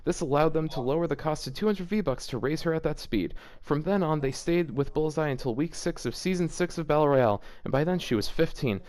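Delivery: reading the fanfic aloud, lightly voiced; a touch of deadpan story narration.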